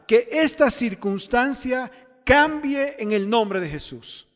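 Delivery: firm, emphatic prayer of claim; anchored sample prayer. Shown as a demonstration. Preacher demonstrates an anchored prayer claiming the blood, emphatically. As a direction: pray it with conviction, driving the key words. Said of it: "la misma oración, en esa misma circunstancia".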